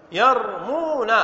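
يرمون said slowly and clearly, falling; slow demo. Shown as a demonstration. Teacher to class, slow careful يرمون. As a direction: stretch يرمون out for dictation. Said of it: "فنقول ماذا".

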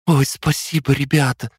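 high, bright chirping thanks. Acted. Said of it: "прощебетала она".

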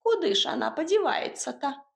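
a bustling little house spirit giving orders. Acted.

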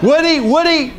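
laughing, high and loud. Real, not acted. Laughing rhetorical challenge to audience.

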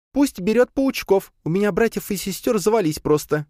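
chirpy little spider pet; spider creature voice. A narrator's reading. Spider pet Leya speaks. (голос паучихи)

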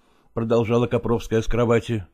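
plain reading voice

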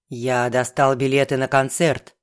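ниже, монотонный бубнёж; бубнить в телефон; бубнящая трубка. A narrator's reading. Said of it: "бубнила трубка". (Феликс бубнит в трубку, ниже обычного)

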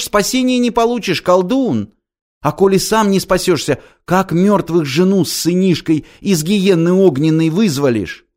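shrill preaching to save the foolish; raving holy fool. A narrator's reading. Holy fool warning Ilya he will not be saved. Tyutya's frantic prophet speech.

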